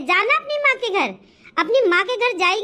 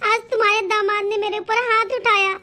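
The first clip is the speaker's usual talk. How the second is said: tearful, level-pitched complaint. Acted. Daughter telling mother her husband hit her, tearful. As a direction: pour out the hurt with mild tearfulness. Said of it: "बेटा रो क्यों रही है".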